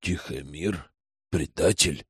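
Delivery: «Предатель?» in a low, hushed questioning voice; stunned murmur. Acted. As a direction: murmur «Предатель?» low as if you can't believe it. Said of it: "пробормотал он".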